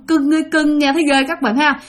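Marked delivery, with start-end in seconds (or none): 0.1-0.8 higher-pitched coaxing ghost voice; gentle ghostly call. Retold or imitated. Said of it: "mặc dầu nhẹ nhàng kêu". (giọng ma gọi nhẹ nhàng, cao)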